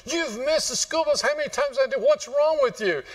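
playing a fed-up mom storming up the stairs; mom screaming. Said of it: "she comes screaming up the stairs".

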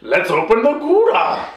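retold eager suggestion. Retold character, raised voice.

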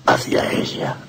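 Hacia ella breathed in an unvoiced hush; awed whisper. Priest repeating it to his confessor in a whisper. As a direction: let it drop to a breath.

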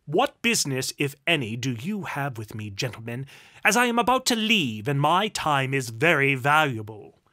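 loud, impatient demand; haughty nobleman who wants to leave; imperious duke. A narrator's reading. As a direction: demand their business with lordly impatience. Duke challenges the gentlemen.

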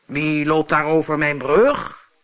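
monster's challenge; calling monster. Acted. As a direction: call out like a troll from below. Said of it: "riep het monster".

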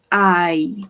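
EYE said clearly as one long gliding vowel; model pronunciation. Shown as a demonstration. Teacher showing students how a word is pronounced, EYE said carefully. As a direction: demonstrate EYE as a single drawn-out syllable. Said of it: "The pronunciation of this word is".

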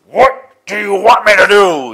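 screaming voice. Retold or imitated. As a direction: boom it out like a very loud big man. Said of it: "that type of just screaming voice".

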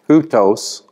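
Hutos repeated as hoo-tohs with a falling end; careful pronunciation. Shown as a demonstration. Teacher repeats Hutos as hoo-tohs for students. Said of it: "that's a diphthong".

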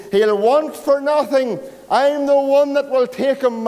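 a hint of a bragging rich man outbidding the rest; boastful rich man. Boastful rich man claims boy.

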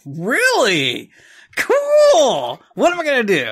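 high, loud mock excitement; mock eager. He humours the preacher, mock excited. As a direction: play up the eager interest. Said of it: "It's like".

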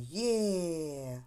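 long-held «є», mildly joyful; demonstrated cheer. Shown as a demonstration. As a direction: stretch «є» into a gentle cheer. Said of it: "вигукувати". (протяжний радісний вигук «є»)

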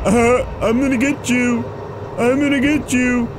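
lightly put-on taunting voice; mock the one chasing you; mock chaser. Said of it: "He's like".

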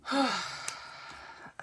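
tired breathy sigh; weary sigh. Real, not acted. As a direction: sigh from feeling sick. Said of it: "wish this cold would go away".

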